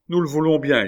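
loud, high assent; eager cry. A narrator's reading. Both parents crying out agreement together, eager shout. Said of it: "crièrent ensemble Mercandon et sa femme".

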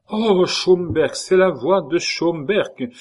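high, loud, slow cry of recognition; crying out together. A narrator's reading. Three favourites recognising Schomberg's voice, loud cry. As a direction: call out in astonishment. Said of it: "crièrent les trois mignons".

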